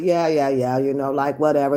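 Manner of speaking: put-on sarcastic voice. Retelling how a man answered after a woman defined a child to him, mimicking his sarcastic voice. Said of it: "his sarcastic voice comes back with".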